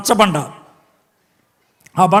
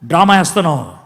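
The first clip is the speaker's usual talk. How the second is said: angry God; 2 semitones higher, 4 dB louder than usual. Acted. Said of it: "దేవుడికి పిచ్చ కోపం వస్తుంది".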